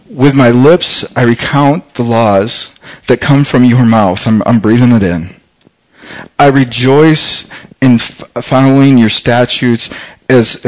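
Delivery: slow, measured reading of the psalm; scripture reading. Acted. Preacher reading Psalm 119 to the congregation, slow and reverent. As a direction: lay each verse down slowly and reverently.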